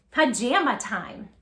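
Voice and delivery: slow, drawn-out storybook title; reading the title aloud. Shown as a demonstration. Teacher reads the book title slowly to the children. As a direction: savor the title for the little ones. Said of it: "demonstrate what it would look like".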